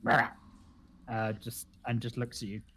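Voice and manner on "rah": toad croak. Acted. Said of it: "the toad just goes".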